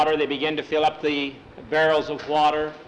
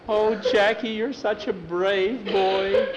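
put-on little girl; 6 semitones higher, slower than usual. A narrator's reading. Girl admiring boy.

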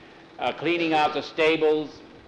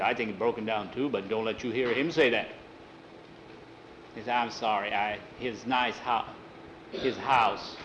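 hushed caution; 4 semitones lower, 6 dB quieter than usual. Acted. Confidential warning, then sheepish apology.

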